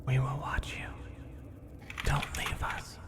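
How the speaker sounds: hushed, breathless creature whisper; whispering rat. Acted.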